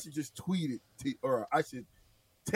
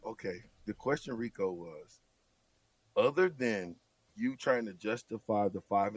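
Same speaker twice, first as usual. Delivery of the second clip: much softer and lower after a breath; calming down; 7 semitones lower, 5 dB quieter than usual. Real, not acted. Host calming himself before repeating the question, soft and low. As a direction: settle yourself and speak softly. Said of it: "let me take a deep breath".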